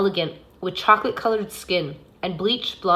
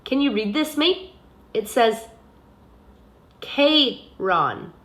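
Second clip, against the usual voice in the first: put-on strange British accent; 3 semitones higher, slower than usual. A narrator's reading. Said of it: "He had a strange accent, British maybe".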